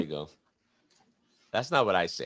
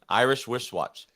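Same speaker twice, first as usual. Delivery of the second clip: slow tongue twister; 2 semitones higher, slower than usual. Shown as a demonstration. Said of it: "You can't".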